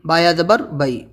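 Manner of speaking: letters named, then بئی with an "ai" glide; spelled-out pronunciation. Shown as a demonstration. Teacher shows how ya sounds in بئی, spelled-out pronunciation. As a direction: spell it out and land on بئی as "bai". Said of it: "وہی آواز اس میں آئے گی".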